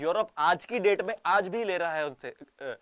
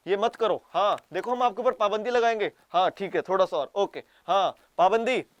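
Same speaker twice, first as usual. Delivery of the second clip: louder hammed-up haggling; half-scolding while taking more; mock double talk; 4 dB louder than usual. Japan threatening sanctions while buying more, loud and mocking. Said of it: "बोल रहे हो".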